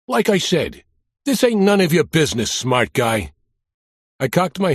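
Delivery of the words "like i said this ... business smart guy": put-on Brooklyn accent. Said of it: "with a thick Brooklyn accent".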